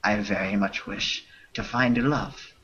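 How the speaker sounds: lightly put-on French accent reading broken English; a hint of a fake French accent, half laughing; bad French accent. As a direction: read the spam in a mock French accent, breaking into laughs. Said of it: "read this spam in a bad French accent".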